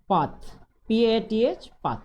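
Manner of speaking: "पाथ" with th ending, then spelled P A T H; pronunciation drill. Shown as a demonstration. Teacher modelling "पाथ" for pupils, clear. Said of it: "यहाँ पे pronounce करना सीखना है".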